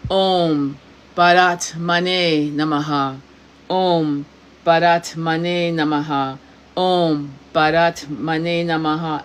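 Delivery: slow, measured mantra chant; steady, drawn-out repetition; mantra recitation. Shown as a demonstration. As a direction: intone it slowly, giving each word weight. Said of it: "the mantra that we're gonna do".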